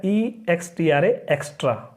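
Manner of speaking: एक्स्ट्रा with the ई sounding as ए; teacher sounding out एक्स्ट्रा; spelling then saying extra. Shown as a demonstration. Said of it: "वो ए की तरह हो रहा है".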